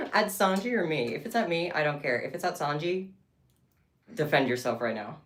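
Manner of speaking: loud, playful defiance; mock indignant. Real, not acted. Defending Sanji against a rude chat comment, loud and playful. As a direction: dare the chat to defend itself.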